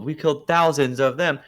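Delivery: quoted line with "thousands" stressed hard; emphasis on thousands. Retold or imitated. Fan quoting the animated film, "thousands" emphasized. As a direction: punch "thousands" as the key word. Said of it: "The emphasis on the words".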